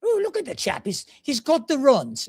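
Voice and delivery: very high mock Irish ladies' voice; gossiping Irish ladies. Neighborhood ladies gossiping about the chap, high mock Irish voice. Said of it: "all the ladies in the neighborhood are like".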